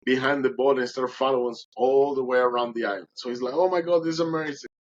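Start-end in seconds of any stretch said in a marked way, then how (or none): 3.5-4.7 higher, mildly excited marveling; retold excitement. Boatman watching the dolphin follow them, excited. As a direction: relive his amazement, pitched up a little. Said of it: "he was super excited".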